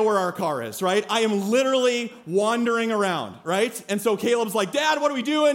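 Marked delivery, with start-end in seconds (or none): 4.7-5.5 put-on freaked-out kid. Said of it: "He's freaking out".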